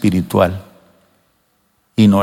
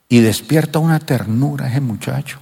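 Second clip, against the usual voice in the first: tender. Acted. Tenderly describing new believer.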